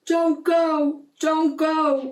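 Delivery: high, loud seagull cry. A narrator's reading. Seagulls warning the mermaid, high loud cries. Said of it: "cried the seagulls".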